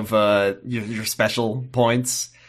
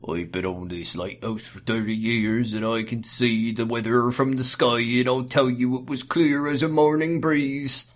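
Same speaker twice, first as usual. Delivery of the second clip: put-on old lighthouse keeper. The keeper boasts to visitors, in a lightly voiced old salt. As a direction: spin a yarn like a weathered old keeper. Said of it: "This is what he's like".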